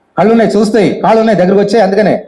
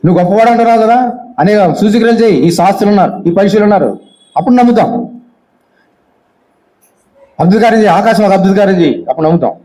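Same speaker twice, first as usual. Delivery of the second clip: demanding; 3 semitones higher than usual. Retold or imitated. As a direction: dare him to prove it. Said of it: "demanding". (పైస్థాయిలో వేగంగా సవాలు చేస్తూ)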